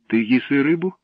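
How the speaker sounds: taken aback, voice lifting; astonished. A narrator's reading. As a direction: ask in open amazement. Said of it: "вражено запитала Катя".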